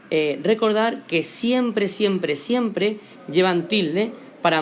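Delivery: siempre, siempre, siempre drawn out slowly, each one leaned on; slow emphatic siempre. Shown as a demonstration. Teacher stressing to students that hiatus always takes an accent, slow and emphatic. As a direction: drag out each siempre to drive it home. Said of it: "es muy importante".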